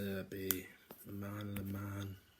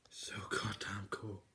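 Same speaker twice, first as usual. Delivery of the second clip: slow, whispered adoration; slower than usual. Real, not acted. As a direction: savor each word in a slow hush.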